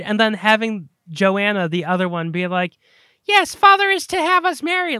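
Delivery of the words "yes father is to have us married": high, loud mock Californian accent. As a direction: imitate an actress's out-of-place Californian accent. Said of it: "this clearly Californian accent".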